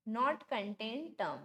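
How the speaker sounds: "not contain term" stretched out very slowly, each word apart; slow breakdown. Shown as a demonstration. Teacher breaking the rule into pieces for students, very slow. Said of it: "सबसे पहले क्या बोला उसने".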